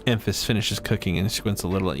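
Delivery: steady storytelling read; story narration. A narrator's reading. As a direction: narrate the ghost tale, building dread. Reads game narration over music.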